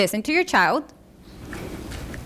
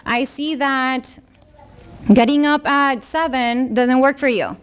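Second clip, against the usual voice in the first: collaborative parent; 3 semitones higher than usual. Shown as a demonstration. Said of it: "Get them involved".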